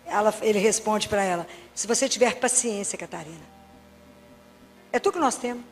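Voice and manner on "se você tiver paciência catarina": soft, low, fading reply; gentle voice of God. Acted. God Father answering Catarina, soft and low. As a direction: lower and soften, let it fade.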